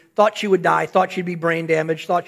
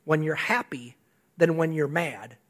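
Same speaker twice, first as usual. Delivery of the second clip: read note softly; 6 semitones lower, 7 dB quieter than usual. Retold or imitated. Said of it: "mine actually says".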